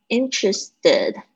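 Interested said slowly, each syllable clear; slow model word. Shown as a demonstration. Teacher slowly models Interested for the class. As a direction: draw out Interested for learners. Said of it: "后面加in，它会有一个连音".

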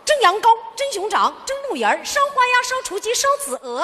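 相声贯口，一口气顺溜报菜名; 像说相声那样有板有眼地背菜单; 报菜名贯口. Acted. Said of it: "我怎么听这词儿怎么这么熟啊". (相声贯口式报菜名)

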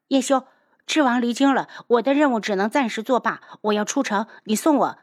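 insistent and agitated; demanding young man. Acted. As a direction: press an urgent demand on a rival. Agitated youth demands an escort.

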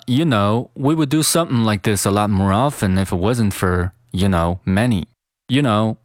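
"you know" as "ya know", "something" as "sum'n"; connected natural reading with reduced "you know" and "something"; linked weak forms. Shown as a demonstration. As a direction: run "often if it" together smoothly, t's unreleased. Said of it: "那这句话就读成了".

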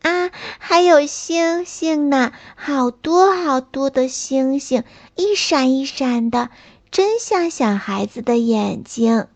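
put-on bright, happy child voice; delighted little snail. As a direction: marvel at the stars.

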